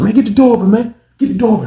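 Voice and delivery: high, pressing urgency; urgent call. Retold or imitated. Man at the door urging it open, high and urgent. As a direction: hurry them up.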